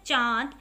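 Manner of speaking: चांद with a nasal vowel and a rising tune; nasal demo word. Shown as a demonstration. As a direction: sound चांद through nose and mouth. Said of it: "नाक और मुख दोनों से बोले गए".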